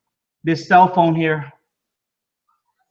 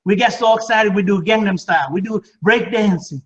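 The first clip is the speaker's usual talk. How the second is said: higher, beaming, playful disbelief; smiling excitement; 5 semitones higher than usual. Retold or imitated. Answering people who ask about ground floor, excited and higher. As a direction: play it up like it's too good to be true. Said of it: "I smile and I said".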